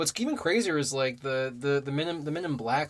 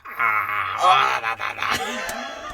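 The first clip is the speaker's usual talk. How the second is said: alien's voice; 4 semitones lower, 6 dB louder, much slower than usual. Retold or imitated. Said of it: "I love his voice when he says it".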